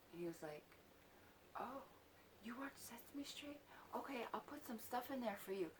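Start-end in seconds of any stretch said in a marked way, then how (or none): 1.6-5.7 imitated surprise, higher and softer; light, high mock surprise with a questioning lift; surprised. Man learning a child watches Sesame Street, mildly surprised. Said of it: "come at me surprised about Sesame Street".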